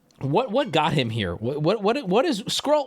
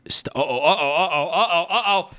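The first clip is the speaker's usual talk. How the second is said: gleeful alarm; 2 semitones higher than usual. Real, not acted. Sees the texts turn to capitals.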